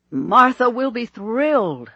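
high, loud, stretched-out delight; youthfully delighted. A narrator's reading. Bishop thrilled for his engaged friend, youthfully excited. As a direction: gush it like an eager young curate. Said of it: "sounding as youthful as a curate".

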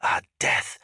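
high, slow battle proclamation; spectral warlord. A narrator's reading. Spectral warlord commanding death to strike, fierce and declamatory. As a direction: urge the dead on, harsh and commanding.

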